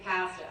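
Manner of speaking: "pasta" with the short a of "cat"; Canadian pronunciation. Shown as a demonstration. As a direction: say "pasta" as PASS-tuh, Canadian style. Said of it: "in Canada, we say".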